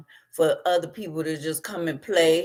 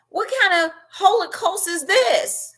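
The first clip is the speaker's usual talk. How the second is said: outraged cry; 14 semitones higher than usual. Real, not acted.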